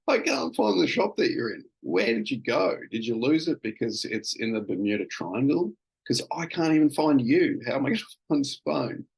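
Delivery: teasing his panicked wife on the phone, mock exasperated; mock exasperation. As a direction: throw up your hands in playful exasperation. Retold teasing reply to wife.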